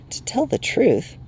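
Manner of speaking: high, slow little sprite voice; timid Will-o'-the-Wisp. A narrator's reading. Sprite confessing its hurry to strangers, high timid voice. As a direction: start hesitantly, pitched well up.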